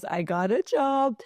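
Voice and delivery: the job news again, pitched well up; real excitement rising on the repeat; excited repeat. Real, not acted. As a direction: say it a second time with a burst of glee.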